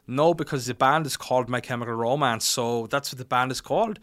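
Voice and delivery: mild mock German accent. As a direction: imitate a German explaining in English. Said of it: "And he goes".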